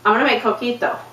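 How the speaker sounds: "coquito" said with American vowels; American pronunciation. Acted. Speaker announcing coquito to relatives, "coquito" pronounced the American way. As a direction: say "coquito" in plain English sounds, co-KEE-toe. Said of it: "like, me and my relatives".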